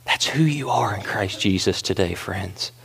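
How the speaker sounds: soft breathy whisper. Real, not acted. Pastor whispering to friends in church, hushed. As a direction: let the words fall to a hush.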